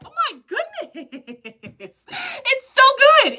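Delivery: slow words broken by high laughter; laughing. Real, not acted. Host still laughing at a viewer's wish, giggling. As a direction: laugh your way through it.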